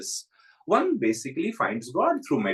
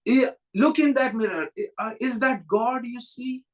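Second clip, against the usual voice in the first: teasing challenge; 10 semitones higher than usual. Retold or imitated. Master confronts yogi with mirror.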